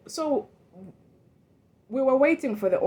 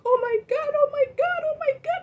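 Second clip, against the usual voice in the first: much higher, rising oh my God, oh my God; mock shrieking panic climbing ever higher; panicked coworker. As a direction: imitate a frantic woman's panicked cry. Coworker finds body, panics.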